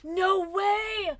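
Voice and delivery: high, loud burst of disbelief; amazed shout. Real, not acted. Streamer reacting to a viewer's news, amazed shout. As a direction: cry out in sheer surprise.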